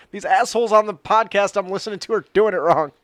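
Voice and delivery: loud, high complaint to a judge; mock aggrieved fan. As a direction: whine loudly like a wronged card player. Acting an outraged listener complaining.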